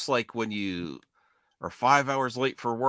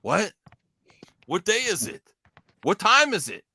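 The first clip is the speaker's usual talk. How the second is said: higher, rising befuddled questions; retold bewilderment; 4 semitones higher than usual. Telling friends how he woke up late for work, bewildered. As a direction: imitate waking up lost and disoriented. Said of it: "I went like this".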